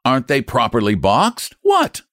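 red-faced man losing his temper; furious customer. Acted. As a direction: jab every question at him. Furious customer argues rates.

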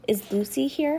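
put-on high-pitched questioning girl; inquiring girl. A narrator's reading. Girl asking nurse after her friend, inquiring.

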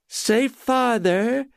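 put-on high, slow drunken sing-song; drunken coaxing cry. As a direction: call it out while barely focusing. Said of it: "she cried".

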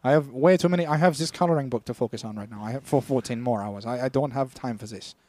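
lightly voiced busy German leader; mildly irritated put-on German accent; mock Hitler. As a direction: brush them off in a fake German accent. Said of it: "Hitler was like".

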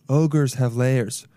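slow, lightly voiced ogre; tentative go at Shrek's accent. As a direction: stretch it out as a mild ogre impression. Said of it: "what is he? Irish?".

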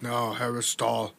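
slow, put-on Austrian accent. Gangster refusing a nickname, in a mock Austrian accent. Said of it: "giving him this accent".

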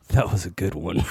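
can barely get the words out for laughing. Real, not acted. Host laughing as he retells the kid's punchline.

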